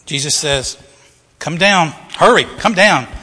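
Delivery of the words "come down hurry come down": calling down. Acted. Jesus calls Zacchaeus down.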